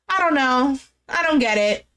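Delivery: mildly let-down sighing voice; retold disappointment. Woman about to walk away, mildly disappointed. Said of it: "like, disappointed".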